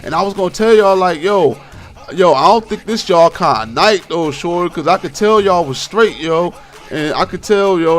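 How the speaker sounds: put-on drunk woman. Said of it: "drunk out of mind".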